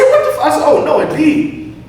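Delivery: very high-pitched mock disbelief; cut-off, comic yelp of astonishment; retold shock.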